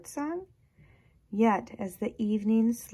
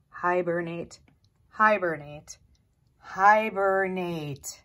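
grumpy woodchuck; 6 dB louder than usual. A narrator's reading. Old grump woodchuck repeating.

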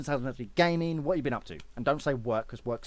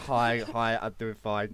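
mock meek greeting, pitched down; mocking a subdued intro; 5 semitones lower, slower than usual. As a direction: imitate his low-key hello. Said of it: "that intro was".

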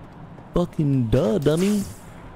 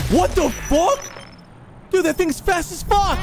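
higher, louder panicked yelling; loud sharp voice; 4 dB louder than usual. Real, not acted. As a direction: yell it out, rattled. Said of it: "Stop yelling at me".

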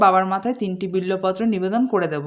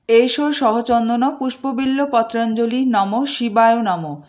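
slow prayerful intoning, sinking at the end; slow mantra recitation; slower than usual. Acted. Host offering flowers at Shiva's feet, slow prayerful recitation. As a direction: offer it with folded hands.

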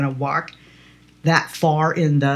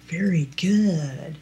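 slow, softer mock approval; condescending praise; 4 dB quieter, much slower than usual. Cop praising the driver like a dummy, slow and patronizing. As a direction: drag it out like talking to a child. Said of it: "like I'm a dummy".

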